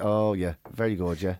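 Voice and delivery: very low, unimpressed mock approval; feigned appreciation. Comic answers another bad joke, feigned appreciation. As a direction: humour the joker with little conviction.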